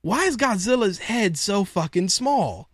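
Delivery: lightly voiced impression with swooping pitch; a hint of someone else's voice, mock-baffled; Slick. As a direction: imitate a friend's incredulous complaint, pitch rising and falling. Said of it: "Slick in my head saying".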